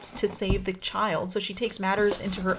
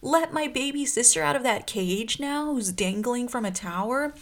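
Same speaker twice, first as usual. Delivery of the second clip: urgent Klaus; 6 semitones higher than usual. Retold or imitated. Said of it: "Klaus is like".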